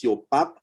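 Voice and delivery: yo PAP with the A as ah; Creole yo pap. Shown as a demonstration. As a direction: open ah in pap, as in déjà. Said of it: "the A always sounds like ah".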